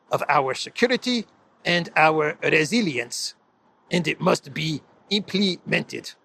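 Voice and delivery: a light mock Zelensky accent, slowing at the end. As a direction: lightly imitate Zelensky's speech to Parliament. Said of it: "I'm gonna say it in my Zelensky voice".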